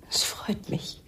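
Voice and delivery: whispered gloat. Acted. Gloating over husband's pain.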